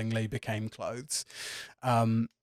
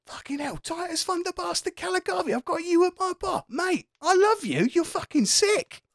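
very high, squeaky excitement, held back then building; stifled fan gushing; 3 dB louder than usual. Acted. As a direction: squeal it under your breath, swelling with awe. Hushed barman gushes at his idol again.

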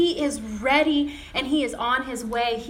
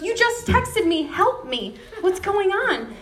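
high-pitched urgent questioning; acted-out agitation on the phone; retold alarm; 6 semitones higher than usual. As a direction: imitate a worried caller wanting answers. Alarmed caller questions daughter-in-law.

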